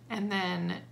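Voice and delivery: ordinary delivery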